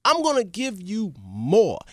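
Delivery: high, slow joyful praise; overjoyed king. Acted. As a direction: pour praise on the servant. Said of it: "The king was so happy".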